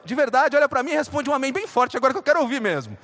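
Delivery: loud, fast, fired-up preacher call; rousing the crowd. Real, not acted. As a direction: whip up the congregation.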